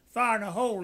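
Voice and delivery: a loud call of fire in a hole; warning shout. Retold or imitated. Soldier shouting a warning to his sergeant before detonation, loud call. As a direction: call it out to the squad before the blast.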